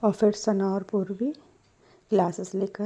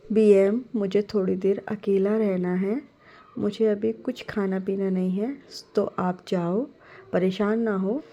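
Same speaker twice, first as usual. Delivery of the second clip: louder, irritated pushback; a bit angry; 4 dB louder than usual. Acted. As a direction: snap at mum to be left alone. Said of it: "थोड़े से गुस्से में irritate होकर". (थोड़े गुस्से में, चिढ़कर)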